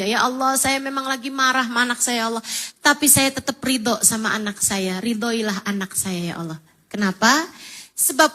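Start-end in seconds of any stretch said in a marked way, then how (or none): 0.0-6.6 softer, calm sincere prayer. Shown as a demonstration. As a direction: pray calmly even while angry. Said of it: "kamu kalau doa gini aja". (doa yang tenang dan tulus, lebih lirih)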